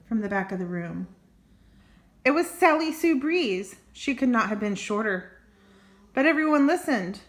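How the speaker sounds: lively read-aloud storytelling; story narration. A narrator's reading. Reading a squirrel picture book to kids, storytelling voice.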